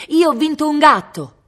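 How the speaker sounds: high, very loud cry; desperate shout. A narrator's reading. Cosimo shouts his victory to departing Viola, yelling. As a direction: yell it to win her attention.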